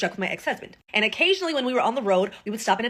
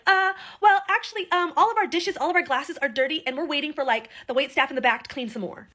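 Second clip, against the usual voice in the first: high, hesitant fake-innocent waitress; mock waitress excuse; 4 semitones higher than usual. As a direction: play the waitress stalling with a lame excuse.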